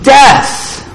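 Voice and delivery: firm, measured scripture proclamation; lightly voiced divine command; great trumpet-like voice. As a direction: declare it solemnly, slowing heavily on the final words. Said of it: "a great voice as of a trumpet".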